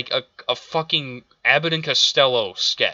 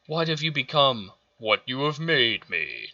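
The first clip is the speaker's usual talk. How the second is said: mocking Vader line. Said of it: "His lines aren't even cool".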